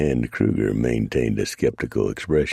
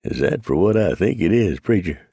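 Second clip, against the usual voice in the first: higher, louder, asked through chuckles; chortling; 8 semitones higher, 3 dB louder than usual. Acted. Trapper teasing Preacher amid hoots, asking through chortles. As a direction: ask it while still laughing at the joke. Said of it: "asked through his chortles".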